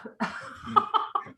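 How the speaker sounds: sudden high sneeze; sneezing. Real, not acted. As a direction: let out a sneeze. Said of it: "I'm gonna sneeze".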